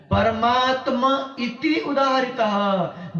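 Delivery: slow, drawn-out Sanskrit verse; shloka recitation. Acted. Preacher quotes the shloka to listeners, slow recitation. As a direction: recite it measuredly, stretching the syllables. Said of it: "इसी श्लोक में कहा है".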